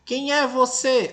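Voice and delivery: high, slow questioning rise. Shown as a demonstration. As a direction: ask it like a real question, drawn out. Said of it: "é interrogar, é perguntar". (entonação de pergunta, lenta e aguda)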